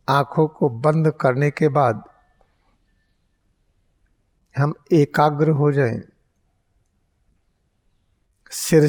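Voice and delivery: unhurried meditation teacher; guided meditation. Real, not acted. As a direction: guide them into focus with long pauses. Leads eyes-closed guided meditation.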